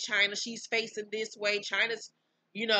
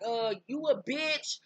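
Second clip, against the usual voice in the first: going off; 4 semitones higher, 3 dB louder, slower than usual. Retold or imitated. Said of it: "started going off".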